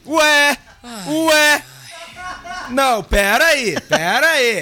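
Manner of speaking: surprised. Real, not acted. Sudden surprise on air.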